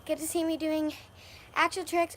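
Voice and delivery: breathless after jumping on a trampoline; out of breath. Real, not acted. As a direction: talk while catching your breath. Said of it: "I'm out of breath".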